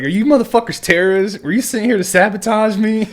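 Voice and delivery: hammed-up instructor yelling; drill instructor rant. Drill instructor ranting at recruits.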